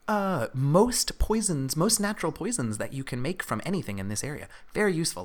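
high-pitched kobold explaining his craft; kobold alchemist. Acted. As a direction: pitch it up like an eager little creature.

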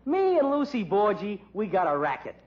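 quoting Sadie. Retold or imitated. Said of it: "that's what she used to say".

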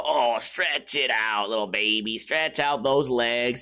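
put-on low, slowly drawn-out baby talk; dog baby talk. Owner to his stretching dog, cooing baby talk. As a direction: coo it low and slow, as to a baby. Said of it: "talking to my dog like a baby".

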